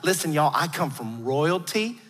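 confiding Southern belle. Retold or imitated. Grandmother confiding royal descent to grandkids, confiding Southern belle. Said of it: "She would, like, whisper to us".

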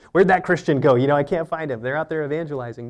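a hammed-up lookout asking where the Christian went; mock confused bystander. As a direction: play a flustered observer looking for someone. Mocking a lost evangelist.

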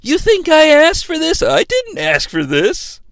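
mock-indignant wrestler, starting high; Triple H. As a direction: repeat the protest in a put-on wrestler voice. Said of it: "Let's listen to that again".

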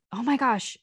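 usual speaking voice

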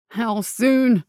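loud urgent hiss. Acted. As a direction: hiss the question out. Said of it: "he hissed".

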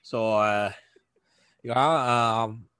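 lightly played Fargo-style Minnesota accent. Fargo witness recounting the scene, mock Minnesota accent. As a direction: play a Fargo local with a Minnesota lilt. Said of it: "They don't actually talk like this".

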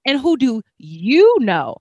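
the bride drags out her question; bride's voice. Retold or imitated. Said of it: "and she's like".

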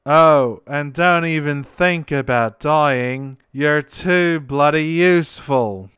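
put-on a light, slow, half-hearted Scottish accent; mock Scottish voice in slow, wooden delivery; Cid's bad Scottish accent. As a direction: imitate a stiff, nervous Scottish actor, backing out halfway. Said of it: "I'll do my best to recreate".

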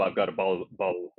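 attempted American accent by a Brit. Shown as a demonstration. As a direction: try your hand at an American accent. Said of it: "can you do an American accent?".

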